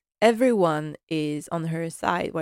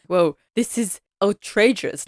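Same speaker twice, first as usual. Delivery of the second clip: a touch of indignant butler outrage; mock outrage; 4 dB louder than usual. Butler objecting to the singer dining upstairs, mock outrage. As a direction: scoff at the very idea. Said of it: "Carson is like".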